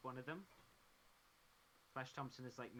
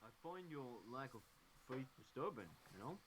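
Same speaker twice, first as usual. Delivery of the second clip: Stallone as Vader; 3 semitones lower, 3 dB quieter than usual. Pretend. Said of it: "Stallone as Darth Vader".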